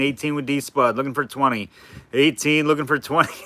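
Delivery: light auctioneer bid calling. Shown as a demonstration. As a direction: call the bids in a lightly done auctioneer chant. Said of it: "I'm doing the auctioneer voice".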